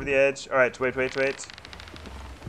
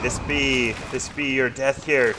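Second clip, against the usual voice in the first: pirate threat; 3 dB louder than usual. Pretend. Pirate threat to enemy crew.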